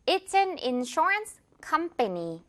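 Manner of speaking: slow "insurance company", weight on COM; stress on COM. Shown as a demonstration. Teacher modelling an example sentence, "company" stressed on COM. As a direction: lean on the first syllable of "company". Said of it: "com의 강세".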